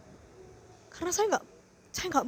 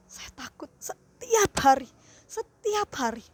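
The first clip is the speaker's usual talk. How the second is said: crying; 3 dB louder than usual. Real, not acted. Fearful testimony of daily terror.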